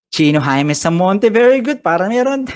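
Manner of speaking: high, loud, gleeful; excited praise. Real, not acted. Teacher praising the star pupil, gleefully. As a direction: gush over the star pupil.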